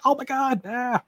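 high-pitched panicked yelp; mock startled scream. Player retelling a jump scare, high mock scream.

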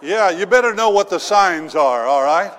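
loud laughing aside to congregation. Real, not acted. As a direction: laugh through the punchline comment.

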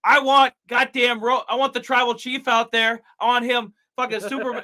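loud, hyped-up wrestling promo rant. Pretend. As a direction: cut a promo like a pro wrestler. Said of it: "I feel like I'm cutting a promo right now".

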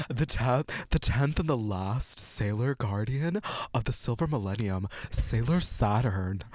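lightly theatrical drag queen read. Pretend. Host resuming the synopsis for co-host, light drag queen voice. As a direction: announce it like a drag queen, slightly put on.

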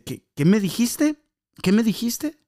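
mock angry stranger; angry demand. Tall stranger confronting the boy, angrily. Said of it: "ya se enojó".

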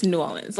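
New Orleans as "nu Ahlenz", Orleans squeezed into one quick word; local pronunciation. Shown as a demonstration. Correcting her friend, she says New Orleans the local way. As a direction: run Orleans together like one syllable. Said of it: "It's, it's one word".

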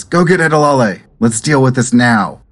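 villager giving orders. Acted. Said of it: "someone says".

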